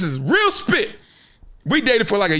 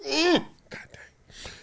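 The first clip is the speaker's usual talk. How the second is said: savoring groan; 10 semitones higher, 8 dB quieter, much slower than usual. Real, not acted. Savouring favourite songs.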